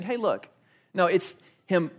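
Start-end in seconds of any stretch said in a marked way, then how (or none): 0.0-0.5 Hey, look tossed off lightly; casual hey look. Shown as a demonstration. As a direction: say Hey, look offhand and easy. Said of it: "not just Paul casually saying".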